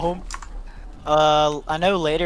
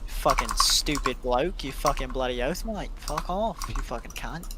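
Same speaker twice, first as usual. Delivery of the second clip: mock Australian accent. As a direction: play a crude Australian bloke, bad accent. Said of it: "Rate my Australian accent".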